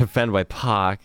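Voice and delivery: slow Boston accent with no R in Park. Shown as a demonstration. Sportscaster repeating his joke for laughing co-hosts, in a Boston accent. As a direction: stretch it out like a Bostonian, accent and all. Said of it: "Boston accent".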